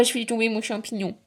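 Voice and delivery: normal talking voice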